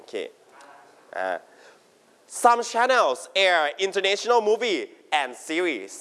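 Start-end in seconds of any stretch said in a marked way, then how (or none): 2.3-5.9 slow, careful model reading; slow model sentence. Shown as a demonstration. Teacher reading slowly for students to copy. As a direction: read it slowly for the class to repeat. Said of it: "Everybody repeat after me".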